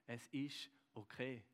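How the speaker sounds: soft and slow, like a smile made audible; gentle reassurance. Retold or imitated. Jesus smiling at Dave, speaking soft, slow reassurance. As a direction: comfort him tenderly, with no hurry. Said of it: "wenn er vor mir steht und mich anlächelt und sagt".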